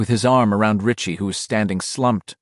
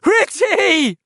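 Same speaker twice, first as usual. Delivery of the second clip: much higher and louder scream; 4 dB louder than usual. A narrator's reading. Bill hearing Richie speak, loud scream. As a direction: scream his name with relief. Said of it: "Bill screamed".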